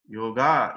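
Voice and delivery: yoga drawn out to a long final aa; feminine long ending. Shown as a demonstration. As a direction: say "Yoga" slowly as yo-GAA. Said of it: "'cause it's a feminine". ("Yoga" with a long -aa ending, like a girl's name)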